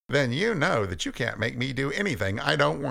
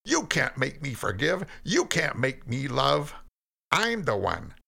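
rising, louder furious tirade; angry Cain; 7 semitones higher, 3 dB louder than usual. Acted. Cain raging at God that nobody controls him, furious. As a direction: build into an outburst of defiance.

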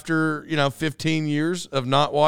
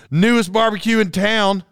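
mock slogan; 4 semitones higher than usual. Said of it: "Maybe that's their slogan".

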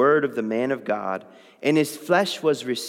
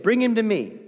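prophet's command; 7 semitones higher than usual. Acted. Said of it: "Elisha said".

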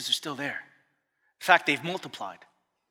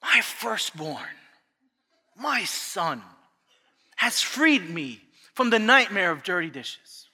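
mock grand praise; slower than usual. Mock-heroic praise of son.

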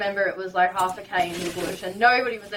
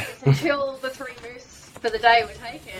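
laughing; 4 semitones higher than usual. Real, not acted. Laughing over the lucky escape.

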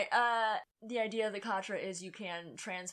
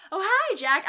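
high, loud cheesy greeting; lightly imitated cult-film hello; mock The Room greeting; 10 semitones higher, 7 dB louder, slower than usual. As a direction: say it like the bad movie line. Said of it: "if I had been in that position".

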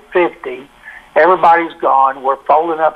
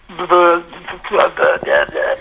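stammering like Porky Pig, stuck on buh; Porky Pig stutter. Retold or imitated. Starstruck young salesman meeting Dave Campbell, Porky Pig stammer. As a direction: speechless stutter, can't get the word out. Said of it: "I sounded like Porky Pig".

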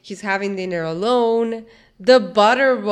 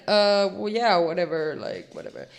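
offhand shrug of a voice, trailing low; nonchalant; 3 semitones lower, 4 dB quieter than usual. Retold or imitated. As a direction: act like you couldn't care less. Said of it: "acts all nonchalant".

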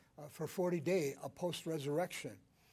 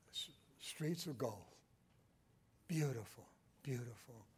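hushed wonder; 6 semitones lower, 8 dB quieter than usual. Real, not acted. Wonder at streets of gold.

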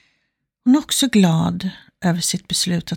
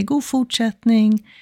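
lightly acted cheery greeting, a little higher; mildly cheerful; 4 semitones higher, slower than usual. Walker greeting two neighbours in passing, mildly cheerful. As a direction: draw the greeting out with a touch of cheer. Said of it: "vinkar glatt och säger".

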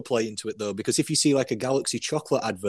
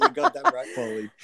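excited agreement; 14 semitones higher than usual. Retold or imitated. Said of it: "And I was like".

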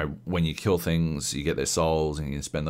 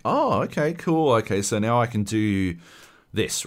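pitched-up, delighted realisation; excited discovery; 5 semitones higher than usual. Retold or imitated. Gamer voicing their surprise at new powers, pitched-up and delighted. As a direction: act out the gamer's thrill of a new trick.

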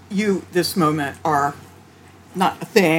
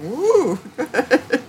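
high, drawn-out ooh of mock surprise; imitating a pleased, surprised creator; pleasantly surprised; 7 semitones higher than usual. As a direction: act out delighted discovery with a laugh. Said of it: "being surprised and saying".

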